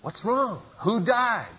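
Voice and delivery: high, sharp indignant questions. Retold or imitated. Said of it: "he was indignant at the breakfast table".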